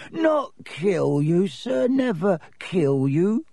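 high, slow, shocked denial; aghast little servant, swooping pitch; shocked elf. A narrator's reading. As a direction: protest in a drawn-out high elf voice.

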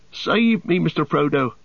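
high-pitched cry for help; panicked gasping. A narrator's reading. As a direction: gasp it out like a drowning hobbit. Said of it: "gasped Sam".

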